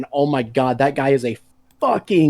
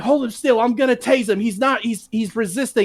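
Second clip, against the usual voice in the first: mock cop orders; 5 semitones higher than usual. Cop voice retold.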